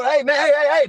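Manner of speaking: mock shout to get their attention; retold call-out. Calling to the dudes in the back room, mock shout.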